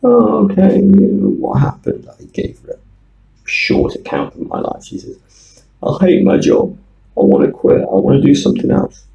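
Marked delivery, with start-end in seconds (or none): 0.0-2.1 put-on Chinese accent. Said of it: "with a very hard Chinese accent". 5.8-9.0 put-on Chinese accent. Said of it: "with a very hard Chinese accent".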